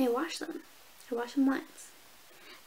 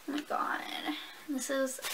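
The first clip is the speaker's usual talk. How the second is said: excited whisper; 6 dB quieter than usual. Real, not acted. Excited over new hoodie.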